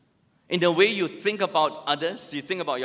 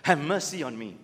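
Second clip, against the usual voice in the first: a hint of a hammed-up plea to a GP, lower; mock plea to the doctor; 3 semitones lower than usual. Faking patient begging the GP for sympathy, mock plea. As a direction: play the patient milking it for the doctor. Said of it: "said to your G P".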